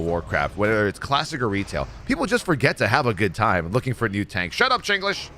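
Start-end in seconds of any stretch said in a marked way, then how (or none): 4.6-5.3 high-pitched shut-up call. Acted. Gamer telling a teammate off, high-pitched callout. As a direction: cut in with a high call to a friend. Calls out to silence a friend.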